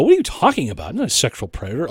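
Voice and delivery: mock touchy protest; testy denial. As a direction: snap back defensively, then settle. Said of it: "you seem a little testy there".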